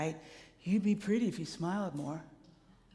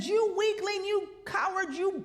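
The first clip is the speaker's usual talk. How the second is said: higher mock taunt, a hint of a bully; 9 semitones higher than usual. Imagined heckler mocking a crying athlete, lightly higher. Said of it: "no one said".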